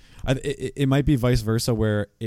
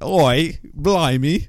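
louder hammed-up British accent; mock Scouse again on request; 6 semitones higher, 6 dB louder, much slower than usual. Friend asks to hear it again, loud mock Scouse accent. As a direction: play up the Liverpool accent for a laugh. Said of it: "Do that again".

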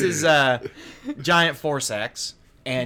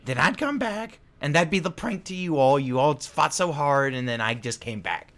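villain voice; 4 semitones higher than usual. Acted. GM voices Nilbog.

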